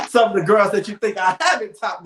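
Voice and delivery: laughing while talking; cheeky laugh through the line. Real, not acted. Cheeky boast, laughing aloud.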